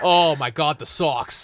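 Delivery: put-on excited Boston fan accent; gushing Boston accent. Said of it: "That's a good Boston accent".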